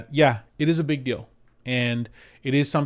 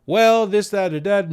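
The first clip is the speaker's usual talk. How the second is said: mock evasive agent; 8 semitones higher, 6 dB louder than usual. Mocking agent dodging the question.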